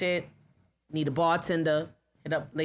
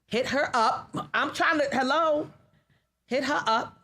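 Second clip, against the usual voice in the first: emphatic plug; 8 semitones higher, 3 dB louder than usual. Real, not acted. Plugging bartender, calling out.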